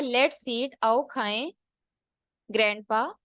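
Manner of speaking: "Let's eat", gloss it, then a separate rising "ग्रैंडपा"; pause before grandpa. Shown as a demonstration. Teacher showing grandpa invited to eat, paused before his name. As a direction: set "ग्रैंडपा" apart after a clear comma pause, calling him. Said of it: "अब ये देखें दोनों में कितना difference है".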